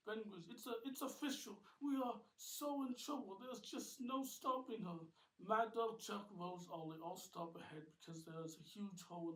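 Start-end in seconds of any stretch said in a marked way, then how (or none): 0.5-5.1 high, loud worry; alarmed despair. Acted. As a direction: sound doomed. Ben despairs during chase.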